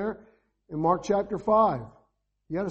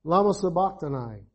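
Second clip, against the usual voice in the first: loud cry; 3 semitones higher, 5 dB louder than usual. A narrator's reading. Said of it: "Jesus cried with a loud voice".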